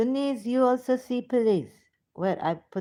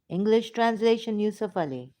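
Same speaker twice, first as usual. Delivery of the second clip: ordinary delivery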